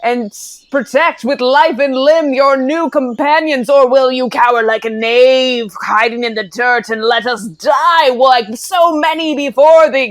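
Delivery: rally the companion like a storybook hero; full heroic speech. Acted. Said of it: "launch into full".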